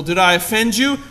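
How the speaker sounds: Did I offend you? asked lightly, mock-sweet; mock concern. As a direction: ask "Did I offend you?" gently, as a sarcastic aside. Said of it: "that's not what it says".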